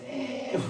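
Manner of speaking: high-pitched mock sigh; acted "ehyu" of disbelief; imitated scoffing sigh. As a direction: sigh it off like a doubting listener. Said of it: "뭐라 그랬어요".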